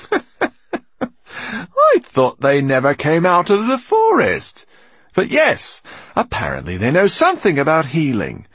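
high, loud, slow rough voice; gruff robber voice. A narrator's reading. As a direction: bellow it like a bandit chief.

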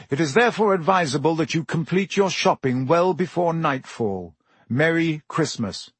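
formal proclamation, lightly announced; official notice. A narrator's reading. A Ministry notice read out to shoppers, formal announcement.

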